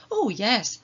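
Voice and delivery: eager yes. Acted. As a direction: answer like excited children. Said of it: "Hattie and Toby replied".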